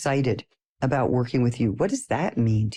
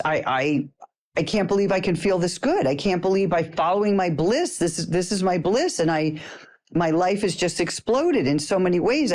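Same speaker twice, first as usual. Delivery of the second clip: higher-pitched, gushing reenactment of delight; retold gushing excitement; 3 semitones higher than usual. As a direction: gush it out in disbelief, stumbling over the words. Retelling her gushing reply to friend.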